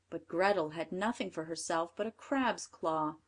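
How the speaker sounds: ordinary delivery, nothing marked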